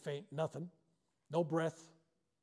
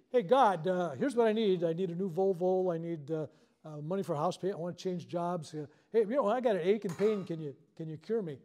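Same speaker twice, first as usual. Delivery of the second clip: mock Santa Claus wish list; 3 semitones higher, 7 dB louder than usual. Pastor mocking a greedy prayer, loud and eager. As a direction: rattle off wants like a kid to Santa. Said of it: "most people prayer is like, uh, going to Santa Claus".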